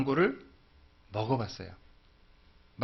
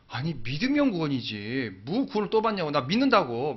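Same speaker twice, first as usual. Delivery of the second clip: dismissive retort. Retold or imitated. Grandmother retorting to daughter.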